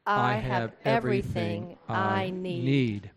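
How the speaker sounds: slow reading, pausing into a long final "need"; stress on NEED. Shown as a demonstration. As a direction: set "need" apart and draw it out. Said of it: "emphasize each word".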